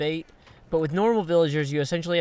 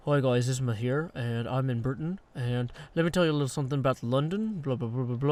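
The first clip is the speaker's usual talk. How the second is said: Isma impression; 3 semitones lower, 4 dB quieter than usual. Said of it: "if I was like Isma".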